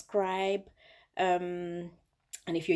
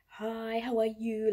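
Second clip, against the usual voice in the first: proper English greeting; 5 semitones higher, slower than usual. Retold or imitated. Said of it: "speaking to me in proper, proper English".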